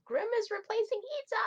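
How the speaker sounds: high, fast, loud exclamation; excited outburst. Real, not acted. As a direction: blurt it out way up high. Excited outburst over cast change.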